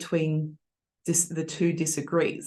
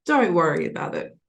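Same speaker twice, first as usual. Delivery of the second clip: dismissive. Shown as a demonstration. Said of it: "So he's like".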